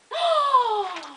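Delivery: high gasp through laughter; laughing gasp. Real, not acted. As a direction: gasp while cracking up. Breaks up at own remark.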